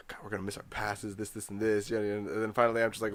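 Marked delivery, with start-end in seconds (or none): 0.1-1.9 mild annoyed sister. Retold or imitated. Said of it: "she's like".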